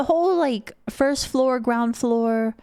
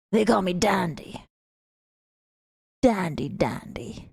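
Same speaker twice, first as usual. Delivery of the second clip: playful whisper; 5 semitones lower, 3 dB quieter than usual. Retold or imitated. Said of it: "I was just like".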